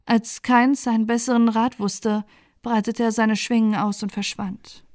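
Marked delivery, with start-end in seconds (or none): none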